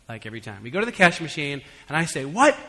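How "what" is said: mock-snooty complaint, pitch jumping up on "What". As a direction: play the spoiled Francophile, half joking. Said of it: "I just get all snooty about it".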